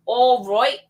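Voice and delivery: put-on playful English-accented "All right"; mock English accent. Host joking while setting up a video, mock English accent.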